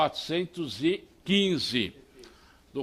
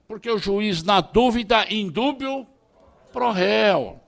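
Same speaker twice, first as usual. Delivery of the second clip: raised-pitch, emphatic advocate's rhetoric; impassioned oratory; 6 semitones higher, 6 dB louder than usual. Real, not acted. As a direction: drive the point home to the students. Impassioned courtroom-style exhortation to students.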